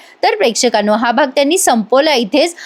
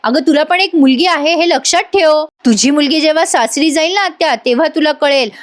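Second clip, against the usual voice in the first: retold angry scolding; 3 semitones higher than usual. Nephew telling off his aunt for nagging, mildly angry. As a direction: retell an exasperated rebuke. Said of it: "जीवा लगेच ओरडतो आणि म्हणतो".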